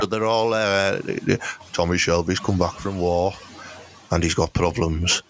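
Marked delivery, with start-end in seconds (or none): 1.7-5.2 low, measured Peaky Blinders voice; lightly voiced brooding gangster; Tommy Shelby. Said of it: "That's how he talks, you see, like that".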